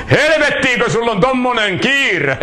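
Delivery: half-hearted retold shout; retold yell. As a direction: imitate an indignant farmer calling after someone. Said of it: "isäntä reagoi ja huutaa".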